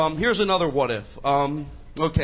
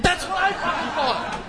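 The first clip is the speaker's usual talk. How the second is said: mock vindicated; 11 semitones higher, slower than usual. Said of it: "I'm like".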